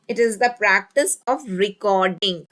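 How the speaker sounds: drawn-out, halting dictation; dictating while writing. Real, not acted. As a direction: dole out the sentence a word or two at a time.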